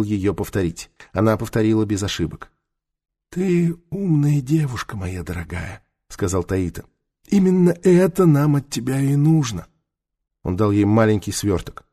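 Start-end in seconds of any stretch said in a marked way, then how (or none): 3.3-5.8 неторопливый голос мудрого старца; спокойный старик-наставник; голос старого мага. A narrator's reading. Таита's voice, old mage. 7.3-9.7 неторопливый голос мудрого старца; спокойный старик-наставник; голос старого мага. A narrator's reading. Таита's voice.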